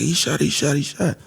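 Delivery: retold fretful alarm; panicked waitress. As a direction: repeat it like a waitress freaking out, lightly acted. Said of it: "she started freaking out".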